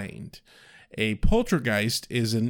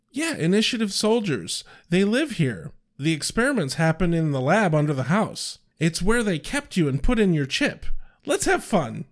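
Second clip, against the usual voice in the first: Anya quoted with lots of inflection; lively inflected quote; 2 semitones higher than usual. Retold or imitated. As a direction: read it bright and animated, not deadpan. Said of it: "I put way more inflection into it than Anya did".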